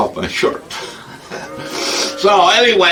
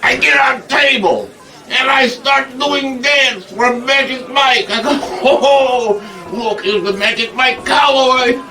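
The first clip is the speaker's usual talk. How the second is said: excited; 7 semitones higher than usual. Acted. Excitedly recounts table dancing.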